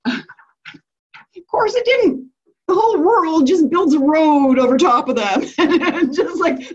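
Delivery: real laughter breaking through the words, slowed right down; laughing at the silly ending of the story. Real, not acted. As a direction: giggle your way through it.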